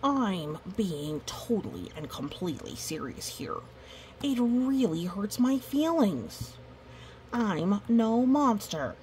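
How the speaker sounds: a hint of a sulky monster; hurt monster. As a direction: plead it like an offended monster. Reads monster's lines in character.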